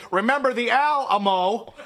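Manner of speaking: slow, teasing imitation of a yell; mock battle cry. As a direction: imitate someone yelling a rallying cry. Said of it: "stands back and yells".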